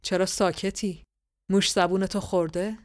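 mild hoarse booming king; hoarse resonant voice. Acted. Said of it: "با صدای خشدار و رسایی".

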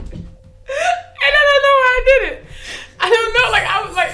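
words squeezed out through high loud laughter; laughing hard. Real, not acted. Telling podcast cohost about barking, laughing through words. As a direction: try to talk while you can't stop laughing.

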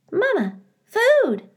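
very high slow peeps; a chick begging to be fed; hungry gosling. A narrator's reading. Gosling asks for food.

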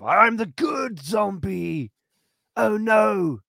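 high, slow, put-on meek zombie; meek good zombie. Mocking the sequel's zombie, high and meek. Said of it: "he starts off".

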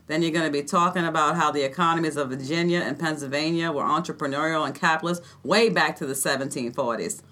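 lightly voiced Boston accent, mocking; a hint of a Boston tough putting down a grad student. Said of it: "That was my Boston accent".

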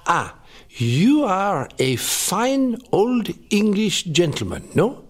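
slow, hammed-up French accent; ridiculous French accent. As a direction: put on a silly French accent, drawing it out. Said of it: "in a ridiculous French accent".

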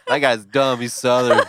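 laughing mock judgment. Co-host teasing about projected stereotype, laughing mockery. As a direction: tease with a laugh in the voice. Jokingly voicing the other host's prejudice.

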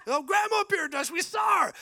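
gushing, over-the-top relative; mock excited relatives. Preacher mocking relatives insisting they saw grandma, high shout.

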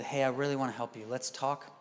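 low, softened, even parental reply; calm parent. Retold or imitated. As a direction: imitate a parent refusing to match the yelling. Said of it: "when your voice sounds like mine".

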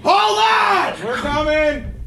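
shouting to people outside; calling out. Real, not acted. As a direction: call out to someone at the front door. Calling out to door.

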